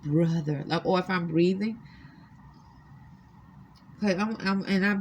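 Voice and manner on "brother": put-on African female accent. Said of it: "African Negro female accent".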